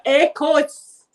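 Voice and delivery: echoes fading away; mimicking a room echo, fading out; imitating an echo. Shown as a demonstration. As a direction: let each echoes fade like an echo off stone walls. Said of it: "like that".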